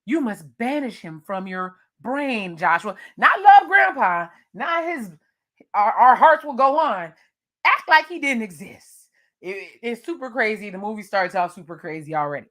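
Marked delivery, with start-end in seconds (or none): 0.0-9.1 mock dramatic mom. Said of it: "She says".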